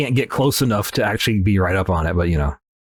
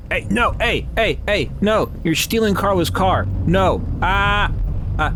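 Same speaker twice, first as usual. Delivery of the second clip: much higher, frantic protest; yelling at thief; 11 semitones higher than usual. Acted. Player yelling at a thief driving off in Carla's car. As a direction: shout after him to stop.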